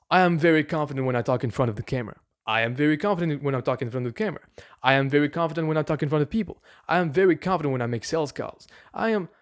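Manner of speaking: rattled off quickly, evenly; fast affirmations. Shown as a demonstration. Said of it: "So you will say things like".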